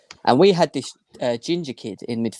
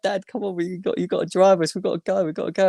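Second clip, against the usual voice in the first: retold shouting; 7 semitones higher than usual. Kids on the coach calling Dad, imitated high-pitched shouting. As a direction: urge Dad along in a raised pitch. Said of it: "they were all shouting".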